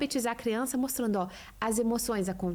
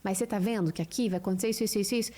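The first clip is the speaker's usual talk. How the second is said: put-on lower, gentle mother explaining to her child; calm mother to child; 4 semitones lower than usual. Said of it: "Aí você fala".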